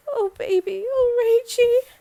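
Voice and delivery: high, tearful mother's endearment; sad, melting. Acted. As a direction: cry out tenderly to your daughter. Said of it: "gave me this really sad, sad, melting look and said".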